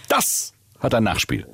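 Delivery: langsam, Nachdruck auf ein, wie ein Wutbürger; empörte Drohung. Acted. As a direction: drohend langsam: Das hat EIN Nachspiel. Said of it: "Und das Nachspiel dann wieder ganz entspannt". (empörter Kunde droht langsam)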